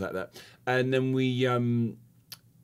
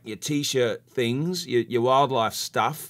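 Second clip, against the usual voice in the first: put-on Australian accent. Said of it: "That was my Australian accent".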